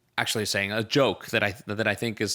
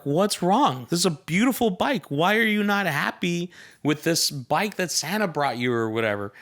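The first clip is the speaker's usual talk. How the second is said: puzzled parents; 6 semitones higher than usual. Retold or imitated. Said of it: "the parents are like".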